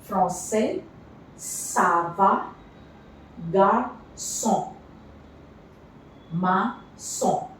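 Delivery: teacher modelling words with the C-cedilla. Shown as a demonstration. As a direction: sound out each Ç word with a crisp s. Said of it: "C with this accent is always S".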